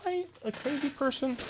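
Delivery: very high, thin falsetto question; questioning himself. Real, not acted. Streamer hunting for lost items, questioning himself in high falsetto. Asks self, then answers flatly.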